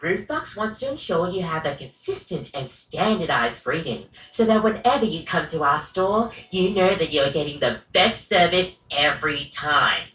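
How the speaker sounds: flat scripted barista robot voice; monotone robot. Acted. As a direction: recite the corporate script like a robot. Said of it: "a monotone robot".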